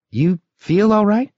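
put-on high, uneasy young man; worried young voice. A narrator's reading. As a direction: ask with growing unease. Youth worried by Rick.

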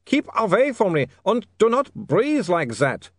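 put-on high, accented vampire wailing; desperate wail. A narrator's reading. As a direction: wail it in panic, pitched high. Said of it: "Otto wailed".

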